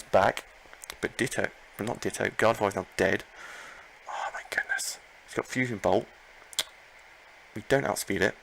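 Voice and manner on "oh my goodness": high breathy squeak; squeaky whisper. Real, not acted. As the Gardevoir falls, squeaky whispered disbelief.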